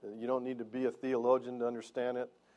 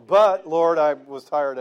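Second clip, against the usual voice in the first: mock whiny plea; 4 semitones higher, 13 dB louder, slower than usual. Acted plea to God.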